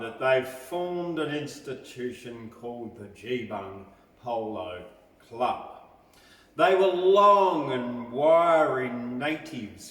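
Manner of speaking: rhythmic ballad reading, swelling to a loud finish; lilting verse read aloud, building to a galloping climax; poem recitation. Acted. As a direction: recite it like a campfire bush ballad.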